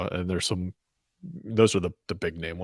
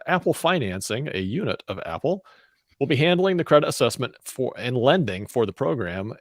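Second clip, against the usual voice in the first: measured, lightly formal news delivery; news read. Acted. Co-host reading the week's tech news, lightly formal news read. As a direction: read out the story to co-hosts.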